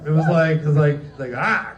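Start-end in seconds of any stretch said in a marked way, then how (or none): 1.4-1.7 mock frightened cry. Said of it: "that scared him off the floor".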